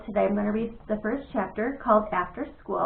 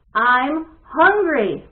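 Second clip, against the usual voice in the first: higher voice; 4 semitones higher, 9 dB louder, much slower than usual. Acted. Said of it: "His voice sounded higher".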